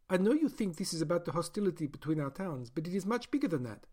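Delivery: a doctor justifying her experiment; doctor's voice. Acted. Doctor lectures the caged man.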